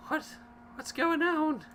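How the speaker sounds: put-on high, small child asking; a scared orphan kid. Shown as a demonstration. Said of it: "That's my, my orphan voice".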